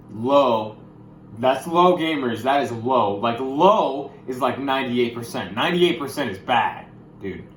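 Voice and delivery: worked up. Real, not acted. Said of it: "I get a little, little worked up".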